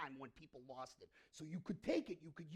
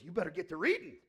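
teacher's warning; 11 dB louder, faster than usual. Retold or imitated. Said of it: "She goes".

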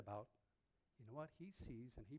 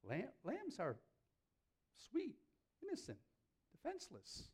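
much higher, cooing over sweet lambs; mock pity; 11 semitones higher, 4 dB louder than usual. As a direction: make the lambs sound pitiful. Mocking lambs as helpless.

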